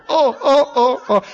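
high yelped oh, oh with each bounce; pained bouncing oh's. Retold or imitated. Rider bouncing on the trotting horse, yelping high. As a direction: yelp with every jolt of the saddle.

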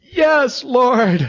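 loud, high cry of triumph; jubilant exclamation. Retold or imitated. Speaker rejoicing at finding her phone number, jubilant. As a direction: exult with a high, punched shout.

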